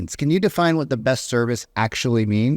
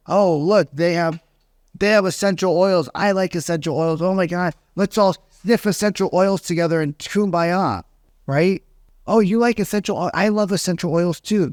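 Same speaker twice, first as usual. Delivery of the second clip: high, overeager fake enthusiasm; mock the rapport-building salesman; fake gushing; 5 semitones higher than usual. Agent gushing at a client's essential oils, high mock excitement. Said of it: "coach to go into their house and".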